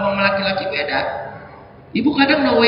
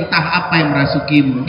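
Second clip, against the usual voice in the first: mock yell; 6 semitones lower than usual. Meme line yelled at wife.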